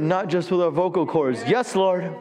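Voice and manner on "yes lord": climbing higher with each yes lord; building fervour. Shown as a demonstration. Pastor stirring the church, building from plain to fervent. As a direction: build it like a rising prayer. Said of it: "We need to say in our spirit".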